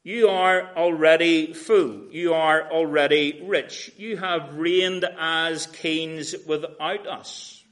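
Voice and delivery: slow, drawn-out mocking praise; sarcastic. Paul mocking the proud Corinthians, sarcastic and slow. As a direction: pour on the sarcasm, slowly. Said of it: "he really gets pretty sarcastic with them here".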